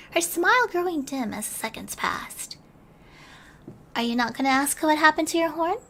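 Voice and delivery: gentle storybook reading with hushed moments; bedtime story narration. A narrator's reading. Streamer reading a bedtime story to her chat, gentle narration. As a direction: read it like tucking listeners in, dropping to a hush now and then.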